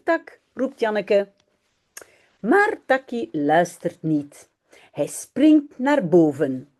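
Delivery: put-on reading a children's story aloud in Dutch. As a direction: read it slowly and clearly for learners. (lecture d'une histoire pour enfants)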